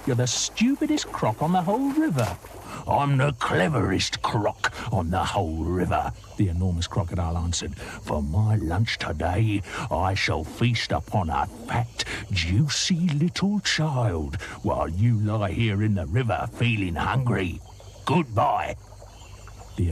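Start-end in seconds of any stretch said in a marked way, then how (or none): 0.1-2.4 high mocking croc voice; taunting croc. Second croc jeers at the enormous crocodile, high and mocking. 2.9-6.1 lightly lower, smug crocodile; boastful croc. Acted. Enormous crocodile boasts to the other croc, lightly low and smug. 7.8-18.8 slow, relishing villain crocodile; gloating croc. Acted. Crocodile gloats to the other croc, slow and relishing.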